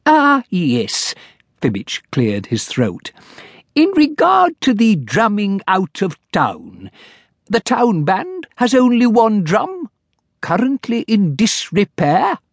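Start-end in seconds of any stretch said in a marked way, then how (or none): 0.1-1.2 high, fussy little clerk; timid clerk. Acted. Clerk character voice. 3.8-12.4 high, fussy little clerk; timid clerk. Acted. Clerk character voice.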